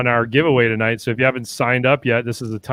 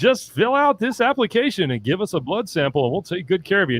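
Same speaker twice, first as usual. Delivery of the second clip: slick used car salesman; 6 semitones higher than usual. Pretend. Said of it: "No, seriously".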